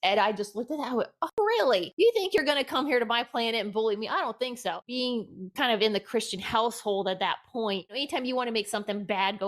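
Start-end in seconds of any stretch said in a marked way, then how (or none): 1.2-4.8 defiant retort. Retold or imitated. Defiantly confronting the lights.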